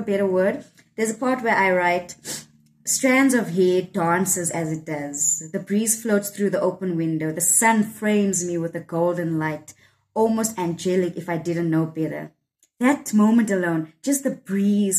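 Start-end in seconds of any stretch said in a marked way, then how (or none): 2.8-12.3 slow, measured reading of verse; poem recitation. Real, not acted. Poet reciting her own lines about morning light, measured. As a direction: let each image unfold slowly and evenly.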